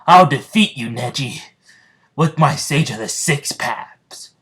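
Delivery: loud, heroic challenge, slowing at the end; powerful battle speech. Acted. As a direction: declare it like a hero before the fight. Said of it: "his powerful Naruto Jutsu speech".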